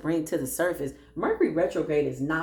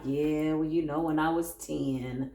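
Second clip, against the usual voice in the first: mopey self-pity; 3 semitones lower, slower than usual. Pretend. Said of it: "be like".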